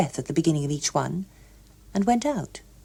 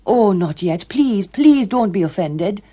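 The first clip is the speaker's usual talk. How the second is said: anxious begging; 3 semitones higher, 5 dB louder than usual. A narrator's reading. Hughes Evans begging.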